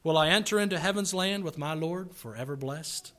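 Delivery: earnest plea, easing down after the climax; heartfelt poem reading. Acted. Preacher reads a child depending on his daddy, heartfelt. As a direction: settle back into a tender, pleading recitation.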